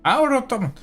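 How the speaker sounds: shocked disbelief. Acted. Magister repeats, much higher.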